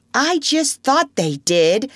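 put-on high, loud childish outburst; excited interruption. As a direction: break in eagerly like a boy. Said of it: "Curly broke in excitedly".

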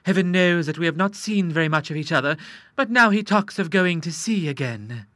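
a touch of sobbing in the voice; tearful wife. Acted. Wife lamenting her husband going to sea, mildly tearful. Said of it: "sobbed Missus Hay Denver".

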